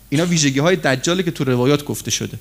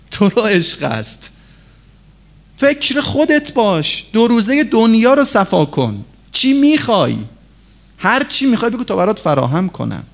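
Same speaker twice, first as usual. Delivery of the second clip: higher-pitched, coaxing voice of worldly temptation; tempter voice; 5 semitones higher than usual. Acted. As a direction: lure the listener like a smooth tempter. Voicing the tempting worldly culture.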